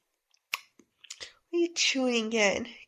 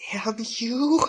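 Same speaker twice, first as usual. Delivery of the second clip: whispered curse. Acted. Boy curses under his breath.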